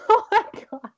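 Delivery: high squeaky laughing fit; giggling like a dog's squeaky toy. Real, not acted. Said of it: "I sound like a squeaky toy for a dog".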